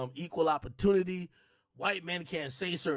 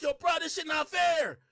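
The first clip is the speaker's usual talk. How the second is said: mock yell; 8 semitones higher, 4 dB louder than usual. Mock complaint about being ignored.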